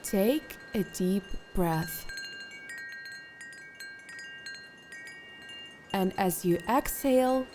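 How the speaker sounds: calm, unhurried instructions with long pauses; guided meditation. Acted. Meditation guide settling listeners into posture and breath, calm guided meditation. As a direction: lead them gently through settling and breathing.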